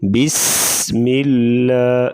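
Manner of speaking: "بسم اللہ" drawn out with a light, thin ل; thin laam. Shown as a demonstration. Teacher models bismillah, slow with a thin laam in "اللہ". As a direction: stretch س, keep the ل of "اللہ" light. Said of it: "لفظ اللہ کا لام باریک پڑھیں گے".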